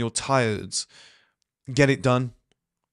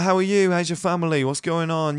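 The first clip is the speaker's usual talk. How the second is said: higher-pitched, eager small talk; mock-friendly catching up, pitched up; imitating a keen, sociable hello; chatty greeting; 5 semitones higher than usual. Voicing his younger, chatty self.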